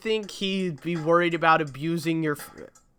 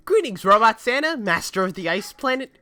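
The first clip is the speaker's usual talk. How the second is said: excited elf voice; 6 semitones higher, 5 dB louder than usual. Acted. Elf greets Robot Santa.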